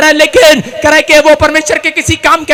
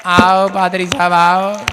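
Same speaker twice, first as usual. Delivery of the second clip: lazy welcome; 6 semitones lower, slower than usual. Retold or imitated. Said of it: "ये कैसे स्वागत करते हैं".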